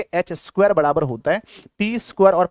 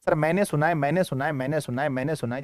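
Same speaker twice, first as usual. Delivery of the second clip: mock pupils chiming in, fading softer and lower; eager pupils imitated; 3 semitones lower, 6 dB quieter than usual. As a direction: rattle off overlapping pupils' replies, trailing away. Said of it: "जल्दी हाथ उठाओ". (छात्रों की नकल, धीमी पड़ती आवाज़)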